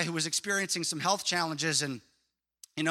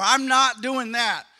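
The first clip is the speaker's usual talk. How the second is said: mock proud refusal; 4 semitones higher, 4 dB louder than usual. Preacher mocking the congregation's excuses, haughty and loud. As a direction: play the self-important person refusing. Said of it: "How many of you have said that".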